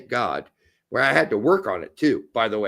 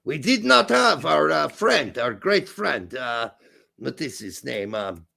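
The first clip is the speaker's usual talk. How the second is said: put-on German accent, groping for words; comic German-accented English. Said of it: "go the entire show with your German accent".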